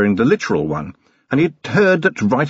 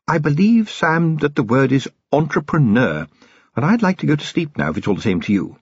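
higher, drowsy aristocratic lady; a sleepy wife wanting to sleep; 4 semitones higher than usual. A narrator's reading. Sybil voiced in dialogue.

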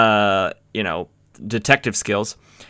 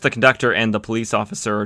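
ordinary delivery

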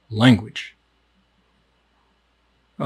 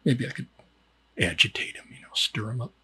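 sly murmur; 8 dB quieter than usual. Acted. Sly scheming aside.

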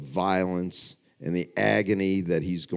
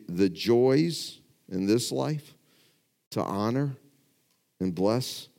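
challenging appeal. Real, not acted. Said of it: "I'll ask it again".

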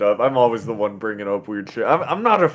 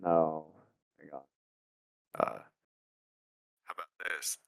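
1950s radio voice; 8 semitones lower, 13 dB quieter, faster than usual. Real, not acted. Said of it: "It sounds like you're on a radio in ... nineteen fifties".

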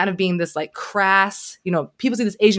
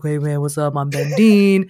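a hint of Midwestern twang, mimicking a YouTuber; twangy Midwestern imitation; 4 semitones lower, 3 dB louder than usual. Imitating a YouTuber's Midwestern twang for friends. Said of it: "kinda twangy Midwestern whatever".

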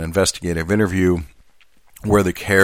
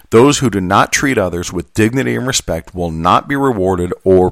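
formal statement reading. Acted. Reads the joint statement aloud.

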